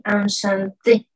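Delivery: enchanté said slowly with nasal an and a rising end; French enchanté. Shown as a demonstration. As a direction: demo enchanté clearly. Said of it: "voy a tener que agregar una E adicional".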